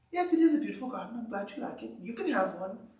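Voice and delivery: brisk and bright like an optimistic friend; upbeat Frog. Acted. Frog answering Toad about his garden, quick and upbeat. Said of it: "Frog is more upbeat".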